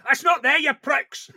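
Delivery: mock Ian. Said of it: "Ian's going".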